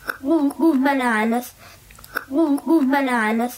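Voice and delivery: reversed-then-forward warped sounds; garbled, as if flipped twice; backwards speech. Shown as a demonstration. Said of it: "flip all three of ours forwards again".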